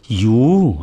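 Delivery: loud, swooping cry of frustration; drawn-out acted shout of exasperation; exasperated yell. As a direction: yell it out, tearing your hair. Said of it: "జుట్టు పీక్కుంటూ అరిచింది".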